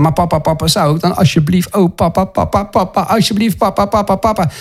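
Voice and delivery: mock-humble, hesitant child begging papa; imitated meek begging. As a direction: grovel timidly, stuck on a stream of papas. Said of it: "naderen met een nederige en smekerige houding".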